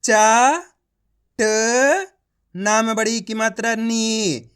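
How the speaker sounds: चा and ट held long with a lift, then नी drawn out; slow spelling aloud for learners; letter-by-letter demo. Shown as a demonstration. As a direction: sound out चा, ट, नी one at a time. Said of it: "एक ही अक्षर का उच्चारण करके".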